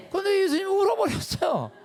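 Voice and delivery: high, loud burst of amazement; astonished outcry. Real, not acted. Preacher exclaims to the congregation in loud amazement. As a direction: cry it out like a shocking reveal. Preacher stresses Jesus wept.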